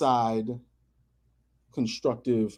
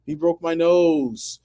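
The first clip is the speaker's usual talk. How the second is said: mock whiny kid; 4 semitones higher, 4 dB louder, much slower than usual. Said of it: "He goes crying to mom".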